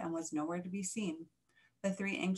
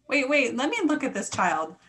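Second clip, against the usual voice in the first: urgent; 6 semitones higher, 6 dB louder than usual. A narrator's reading. Mother bat pushes through.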